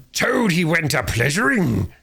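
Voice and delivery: slow, high, savage yell of the song; furious yell. Acted. Toad charging the Chief Weasel, yelling his song back. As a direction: throw their song back at them. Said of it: "he yelled".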